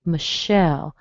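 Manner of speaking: "Michelle" as muh-SHELL; weak uh first, stressed second syllable in "Michelle"; Michelle with schwa. Shown as a demonstration. Teacher modelling the pattern, schwa in "Michelle". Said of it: "this pattern requires a schwa".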